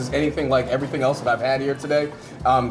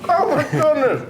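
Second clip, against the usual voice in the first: high laugh, then a higher "Oh my goodness"; delighted Santa laugh; 13 semitones higher than usual. Real, not acted. Host still laughing over the taco, gasping out his delight. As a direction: overcome with delight at the taste. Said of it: "you made me sound like Santa Claus".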